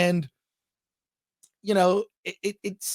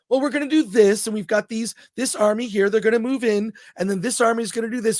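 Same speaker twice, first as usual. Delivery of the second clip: polite generals; 3 semitones higher than usual. Retold or imitated. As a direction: toss off the battle plan like a genteel game. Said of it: "doing it politely and in a gentlemanly way".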